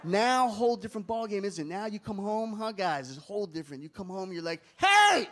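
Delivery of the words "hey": high, bright over-eager offer; eager to please. Retold or imitated. Modern husband coming home offering his wife breakfast, eagerly. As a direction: fawn over her like a keen servant.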